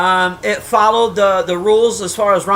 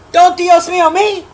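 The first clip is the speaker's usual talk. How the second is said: "Don't Dios mío me" pitched up high in a mock-indignant voice; mock scolding, higher; 8 semitones higher, 5 dB louder than usual. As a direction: throw "Dios mío" back at her, high and sassy. Repeats the phrase in two voices.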